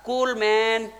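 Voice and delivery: slow, laid-back "cool" delivery; unbothered, playfully mellow quote; relaxed reply. Retold or imitated. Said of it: "Nabi tersenyum dan berkata".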